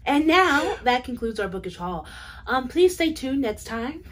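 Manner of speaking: news anchor sign-off; reporter voice. Pretend. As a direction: announce it like a TV reporter. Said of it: "My reporter voice".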